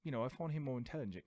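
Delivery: affect a British accent to seem clever. Shown as a demonstration. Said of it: "with, like, an accent".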